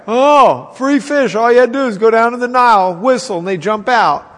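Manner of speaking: pine for easy free fish; whining Israelites. Acted. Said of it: "they don't remember it that way".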